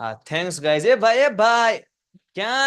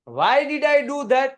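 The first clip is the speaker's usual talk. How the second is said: very slow, higher questioning read; slow, raised pleading question; 6 semitones higher, 4 dB louder, much slower than usual. Shown as a demonstration. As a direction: ask it slowly, as if hurt. Reads Devyani's question aloud.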